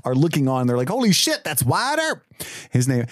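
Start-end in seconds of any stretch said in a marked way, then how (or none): 0.9-2.2 excited gasp. Retold or imitated. Lawmen gasp at Wyatt.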